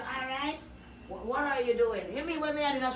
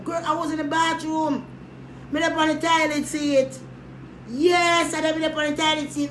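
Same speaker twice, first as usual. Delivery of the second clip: loud protest; 5 semitones higher, 4 dB louder than usual. Retold or imitated. Excited self-defence on phone.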